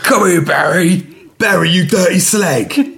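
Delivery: slow, laughing wife voice; pretend wife voice. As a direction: play the wife, half laughing. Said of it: "I'm pretending to be her".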